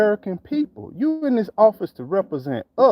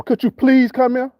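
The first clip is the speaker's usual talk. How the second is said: polite words with a pushy edge; sweet on top, pressure underneath; fake polite request; 5 semitones higher, 3 dB louder than usual. Shown as a demonstration. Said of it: "That don't mean you ain't saying it aggressively".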